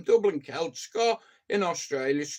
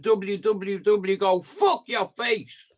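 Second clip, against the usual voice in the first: getting a bit excited; slower than usual. Real, not acted. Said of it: "I'm getting a bit excited there".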